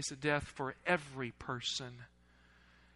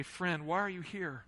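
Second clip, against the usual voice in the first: softer, gentle asking of the same words; soft question; 6 dB quieter than usual. Acted. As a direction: drop the voice and ask it tenderly. Jesus asking the congregation today.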